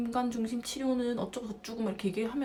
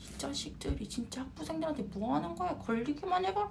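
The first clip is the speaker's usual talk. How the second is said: softer, rising high-pitched mock threat; mock indignant grumble; 4 semitones higher, 6 dB quieter than usual. Student grumbling about the professors after the interview, mock indignant. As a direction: grumble in comic outrage, climbing higher.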